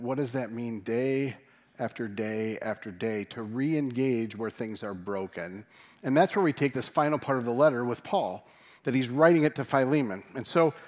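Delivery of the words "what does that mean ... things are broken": slow, softer, each day pressed home; slow it down and let it sink in; slower, weightier question. Shown as a demonstration.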